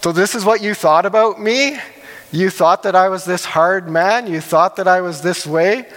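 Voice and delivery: mock-disbelieving questions, rising at the ends; sarcastic master. Master mocks the fearful servant's excuse, sarcastic. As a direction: throw his words back at him with a sneer. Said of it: "almost sarcasm in there".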